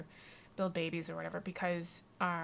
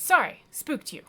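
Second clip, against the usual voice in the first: high, loud character voice; exclaimed, hammed-up sorry; cat lady apology; 7 semitones higher, 12 dB louder than usual. Cat lady apologizes to Wake, high loud apology.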